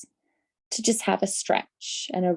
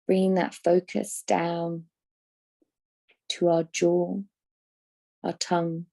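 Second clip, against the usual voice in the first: guided meditation. Acted. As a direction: guide them gently into rest, phrase by unhurried phrase. Leads a yoga nidra.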